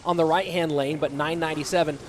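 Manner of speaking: brisk, lively esports commentary; live play-by-play. Real, not acted. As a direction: call the match live, lifting on the big moments.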